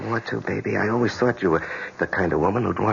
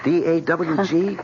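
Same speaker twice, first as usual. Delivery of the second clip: spelled out slowly; 7 semitones higher, much slower than usual. Acted. Spelling out the dog's name.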